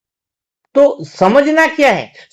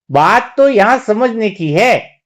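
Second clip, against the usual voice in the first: slower, measured, drawn-out words; slow emphatic repeat; slower than usual. Real, not acted. Preacher repeats the key point to listeners, slow and emphatic. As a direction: stretch it out so it sinks in.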